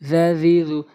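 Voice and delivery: each "জ" in "জা জি জু" like th in "this"; tongue-tip dh. Shown as a demonstration. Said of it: "জাল জিব্বার আগা".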